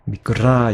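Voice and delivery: 미끄라 with the final 라 vowel held long. Shown as a demonstration. Teacher correcting a too-short reading, final 라 of 미끄라 drawn out. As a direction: stretch out the last vowel of 미끄라. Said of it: "길게 발음해야 돼요".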